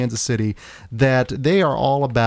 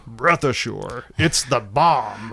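George Kennedy impression; much slower than usual. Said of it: "I do love me some George Kennedy".

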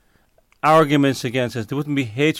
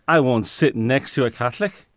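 imitated Northern Irish accent, slowing at the end. Presbyterian theologian refusing to sit with Catholics, imitated Northern Irish accent. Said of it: "in his Northern Ireland accent".

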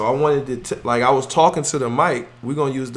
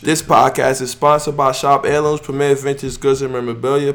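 stuffy, congested voice; reading while stuffed up from a cold; sick voice. Real, not acted. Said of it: "pardon how I sound. I'm sick".

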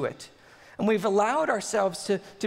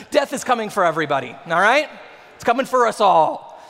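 louder, quick and blunt, pushing the point home; loud blunt declaration; 7 dB louder than usual. Acted. Preacher jokes to the congregation that death comes for all, louder. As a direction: hit them with it, fast and loud.

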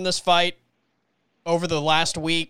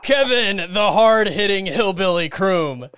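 booming fight-night intro, drawn out; ring announcer voice; 2 semitones higher, 3 dB louder, slower than usual. Pretend. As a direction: call him out like a ring announcer.

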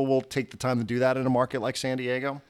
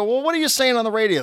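mock angry; 10 semitones higher, 3 dB louder than usual. Retelling manager's angry phone call.

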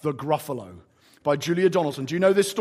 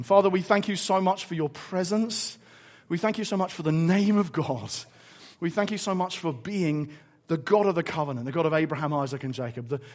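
measured, level praying voice; prayer. Real, not acted. Preacher thanking the Father for his presence, prayerful. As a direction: lead the room reverently in thanks.

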